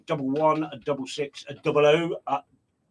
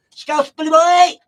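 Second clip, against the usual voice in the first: loud, high, slow drawn-out name call; big hype shout; 11 semitones higher, 11 dB louder, slower than usual. Real, not acted. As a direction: belt the name out like a ring announcer. DJ hyping his brother-in-law.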